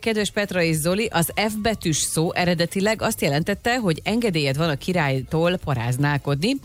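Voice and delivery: ordinary talk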